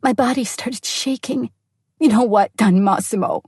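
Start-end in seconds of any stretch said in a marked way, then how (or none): 2.0-3.4 growled with rage. Acted. Wife turns on her husband over the phone, growling with rage. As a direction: menace him with it. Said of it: "I growled, my voice filled with rage".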